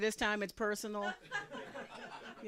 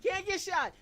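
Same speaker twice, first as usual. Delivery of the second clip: much higher and louder "Can't"; louder repeat; 10 semitones higher, 7 dB louder than usual. Real, not acted. Comic repeating the punchline to the crowd, louder. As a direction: stress on Can't. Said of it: "punchline repeated".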